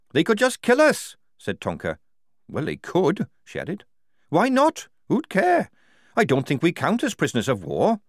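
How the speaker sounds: a tough recruit scoffing at danger; Tonker. Acted. Tonker argues bleakly.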